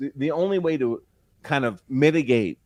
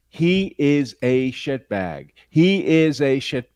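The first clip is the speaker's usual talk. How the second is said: witnesses quoted; 4 dB louder, much slower than usual. Retold or imitated.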